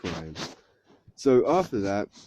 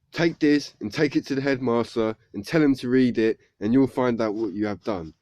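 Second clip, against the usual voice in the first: mildly cross teacher giving orders; a touch of acted anger; mock mad teacher; 4 dB louder than usual. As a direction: act out a teacher's telling-off. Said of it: "she's really mad about it".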